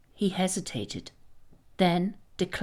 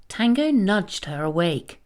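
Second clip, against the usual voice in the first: plain reading voice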